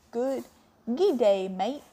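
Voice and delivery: practising an Aussie greeting; attempted Australian accent. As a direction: feel out the Australian vowels. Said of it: "Let's try it again".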